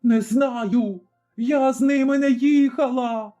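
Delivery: frightened denial. A narrator's reading. Bound tavern keeper denies to Zaruba, frightened. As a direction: deny it desperately with a knife at her throat.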